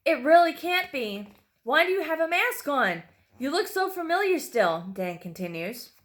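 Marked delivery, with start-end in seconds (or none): 0.1-4.9 high-pitched, stunned questioning; shocked disbelief. A narrator's reading. Dan half recognizes his masked captor, shocked disbelief. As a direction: reel from recognizing him, voice raised.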